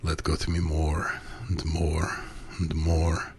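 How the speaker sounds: slow, moaning plea; moaned. A narrator's reading. Submissive pleading to his master, slowly moaning. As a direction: let the words melt into a moan. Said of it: "I moaned".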